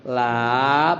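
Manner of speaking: "la" with a drawn-out a; teacher's elongated "la"; long vowel. Shown as a demonstration. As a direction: hold the vowel of "la".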